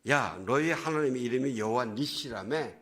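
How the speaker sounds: mock taunt; Goliath. Goliath teases Israel about their God's name, mock taunting. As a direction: imitate someone needling an enemy about their god. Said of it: "이러고 놀려대는 거예요".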